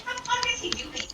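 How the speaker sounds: high, breathless whispered disbelief; watching the ex point at her, whispered confusion; baffled whisper. Retold or imitated. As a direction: hiss it under your breath, confused. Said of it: "and I'm like".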